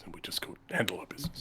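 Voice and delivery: whispering. Acted. Player whispers aside.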